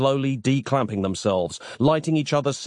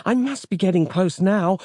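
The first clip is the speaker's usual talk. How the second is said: high-pitched, excited holler; 8 semitones higher than usual. A narrator's reading. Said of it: "hollered Samantha".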